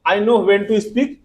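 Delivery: very slow, each word apart; slow dictation. Shown as a demonstration. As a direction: read the full sentence out for dictation. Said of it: "यहाँ full stop". (पूरा वाक्य धीरे-धीरे लिखवाना)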